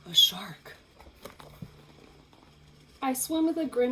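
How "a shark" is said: dark, loud announcement; menacing shark reveal; ominous. Acted. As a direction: announce the danger. Shark appears, dramatic announcement.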